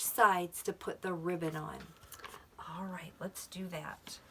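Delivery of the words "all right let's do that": whisper. Real, not acted.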